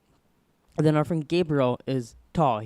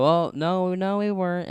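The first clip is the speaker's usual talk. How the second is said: higher-pitched protest; pitched-up, mildly put-on denial; retold innocent denial; 5 semitones higher, 3 dB louder than usual. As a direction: act out a kid denying it. Boy denies throwing rocks.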